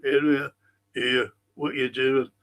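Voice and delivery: low mock-Scouse impression; bad Scouse take-off. Viewer mocking a TV actor's terrible Scouse, hammed-up bad Scouse accent. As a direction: put on a badly faked Scouse accent. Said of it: "they spoke like that".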